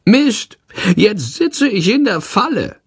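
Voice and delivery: very high, panicky little creature; high-pitched, frustrated creature voice; cursing creature. A narrator's reading. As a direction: squeal a curse at being trapped. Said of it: "flucht er".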